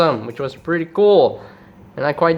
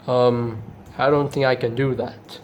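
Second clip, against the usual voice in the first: Jetfire; 2 semitones lower, 4 dB quieter than usual. Acted. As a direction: refuse quietly and hesitantly. Jetfire refuses.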